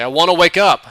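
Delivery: loud, high, pleading shout; desperate shout to be let out; desperate yell. Retold or imitated. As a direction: yell it, begging to wake up. Pleading louder to wake up.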